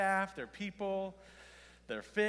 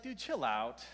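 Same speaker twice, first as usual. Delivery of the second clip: tag; 4 dB louder than usual. Retold or imitated. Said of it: "I'd be like".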